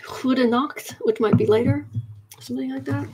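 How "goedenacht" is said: tentative, mangled Dutch pronunciation; terrible Dutch accent. Pretend. Offering a later Dutch greeting to a viewer, bad Dutch accent. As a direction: have a shaky go at a Dutch accent. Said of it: "I'm sorry for murdering your".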